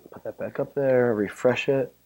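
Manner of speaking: ordinary talk, nothing marked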